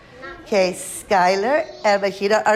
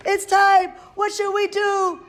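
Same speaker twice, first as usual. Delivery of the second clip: excited; 11 semitones higher than usual. Acted. Excited hatching moment.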